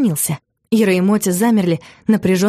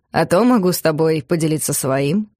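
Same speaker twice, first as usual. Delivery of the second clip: lower voice; 4 semitones lower than usual. Acted. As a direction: voice dropped lower, suggestive. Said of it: "произнесённое более низким, чем обычно, голосом".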